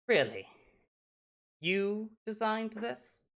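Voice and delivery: slow, high-pitched astonished question; acted amazement, lifting high on the question; impressed surprise. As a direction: draw it out in rising disbelief. Gnome amazed by child's work.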